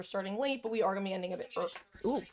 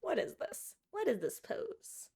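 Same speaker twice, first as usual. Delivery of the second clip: higher, slow cooing pet talk; 6 semitones higher, 4 dB quieter, slower than usual. Real, not acted. Streamer to her cat about its pose, cooing. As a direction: coo at the cat's funny pose.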